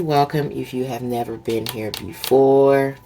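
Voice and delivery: talking while chewing gum; words round a wad of gum. Real, not acted. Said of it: "I got gum in my mouth".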